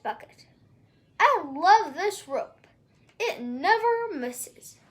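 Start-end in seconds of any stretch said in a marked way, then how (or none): 1.2-4.8 lightly voiced slow giant; a hint of a slow, proud giant. Giant admiring his magic rope, lightly booming.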